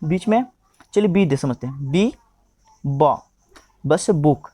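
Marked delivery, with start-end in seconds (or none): 2.8-3.2 ब as a short "buh", not "bee"; letter sound of B. Shown as a demonstration. Teacher showing what B says, ब sounded out as "buh". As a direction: sound out ब as consonant plus short vowel. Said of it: "ये ब का उच्चारण हो रहा है".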